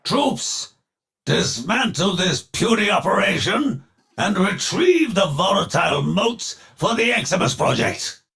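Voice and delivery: high, quick command to troops; calling out orders. Acted. Villain barks orders to troops.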